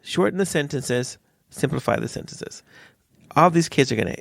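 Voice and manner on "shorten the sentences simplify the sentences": slow and simple. Shown as a demonstration. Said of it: "Slow down".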